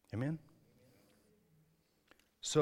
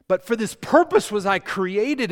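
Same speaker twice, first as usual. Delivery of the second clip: slow, louder, higher proclamation; loud preaching; 9 semitones higher, 13 dB louder than usual. Acted. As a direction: proclaim it to the whole room. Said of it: "I was created".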